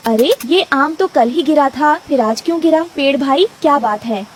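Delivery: lightly voiced puzzled little bird; puzzled Rano bird. Rano asking tree about the fallen mango, puzzled. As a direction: question it with mild surprise.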